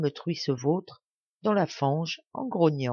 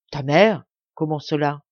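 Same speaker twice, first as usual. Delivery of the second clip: loud astonished question; 6 dB louder than usual. Acted. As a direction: burst out in disbelief. Old man stunned by the claim.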